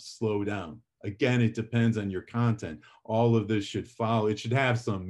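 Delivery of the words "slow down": settled, falling "slow down"; unhurried "slow down". Shown as a demonstration. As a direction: ease off on "slow down". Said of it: "Vary your rate".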